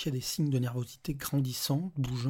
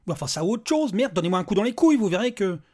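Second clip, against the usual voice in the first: high, loud exasperated demand; heated outburst; 6 semitones higher, 8 dB louder than usual. Acted. Desperate father shouts at the robot, furious. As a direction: lose it completely. Petri losing his temper.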